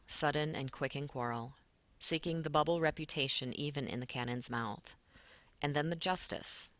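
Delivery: measured reading of Shakespeare verse; steady recitation of verse; poem reading. Acted. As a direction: read the lines out like a poem to the class. Teacher reads poem passage aloud.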